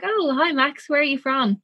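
high, bright-eyed mock cheerful; overly cheery hello, retold; breezy greeting. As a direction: chirp it like nothing's wrong. Her own breezy greeting retold.

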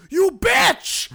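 hammed-up high, loud yell; startled enemy guard. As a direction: yell it like a game villain spotting the player. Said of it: "the very first guy I see, he was like".

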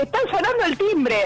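battuta concitata detta in personaggio, più acuta. Retold or imitated. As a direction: avvisa restando nel personaggio, voce alzata di tono. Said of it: "En personaje".

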